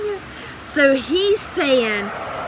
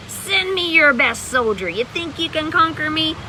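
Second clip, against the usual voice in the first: taunting giant; 5 semitones higher than usual. Retold or imitated. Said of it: "some big giant screaming across the hill".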